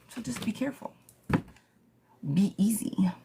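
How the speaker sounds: quiet, almost whispered caution; soft warning. Real, not acted. Tarot reader softly cautioning Lizzie about Ben, hushed. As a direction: ease her down gently. Gentle advice to client.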